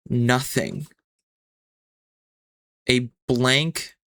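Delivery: measured narration with suspenseful pauses; game master scene-setting. Acted. Game master leads player into a fading world, measured suspenseful narration. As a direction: set the scene phrase by phrase, letting it hang.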